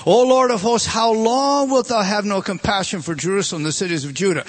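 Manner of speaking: lifted, loud plea to God; a loud plea for Jerusalem; pleading cry. Acted. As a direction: call out O Lord of hosts in anguish. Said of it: "answered and said".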